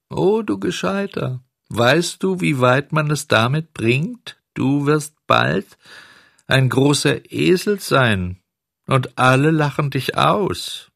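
very high, mocking little voice; scolding cricket voice. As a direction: scold him like a tiny cricket.

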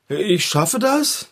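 doubtful, slow questioning mumble; unsure. Shown as a demonstration. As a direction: say it as if you don't believe it. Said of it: "Mit noch mehr Überzeugung".

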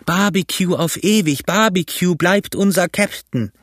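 high, rousing cheer; crew acclaiming. A narrator's reading. Mutineers acclaim Barbecue as their captain, calling out high. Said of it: "riefen sie".

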